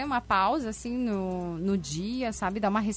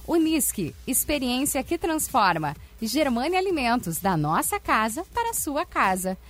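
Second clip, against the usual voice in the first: hard sell ad. Acted. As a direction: hype the summer event on air. Event promo read.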